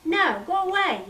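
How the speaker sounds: high loud refusal; yelling. A narrator's reading. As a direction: yell her off. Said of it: "yelled Laura".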